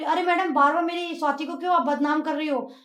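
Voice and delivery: a defensive mother snapping at the doctor; retold angry shout. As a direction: scold the doctor sharply for blaming her daughter. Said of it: "तो फिर वो जोर से चिल्ला के बोली".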